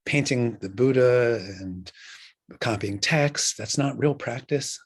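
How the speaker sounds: mildly perplexed student, halting between phrases; a touch of bewilderment; a little perplexed. Retold or imitated. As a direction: voice a student's puzzled questioning. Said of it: "is a little perplexed".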